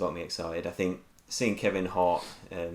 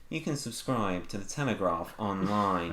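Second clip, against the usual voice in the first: droning robotic announcer; slower than usual. Retold or imitated. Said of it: "like the Alexa woman from The Telegraph".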